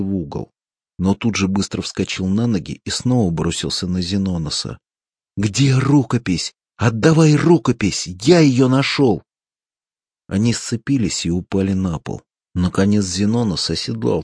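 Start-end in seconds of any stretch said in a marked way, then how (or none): 5.4-9.2 higher, louder, demanding yell; angry shout. A narrator's reading. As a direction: bellow it while lunging at him. Lunging again in a fight.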